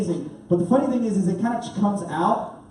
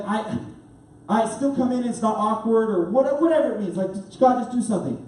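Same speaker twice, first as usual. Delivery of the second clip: desperate rambling prayer, pitched up; pleading prayer; 4 semitones higher than usual. Retold or imitated. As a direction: beg God in a run-on plea. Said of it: "so I'm praying that".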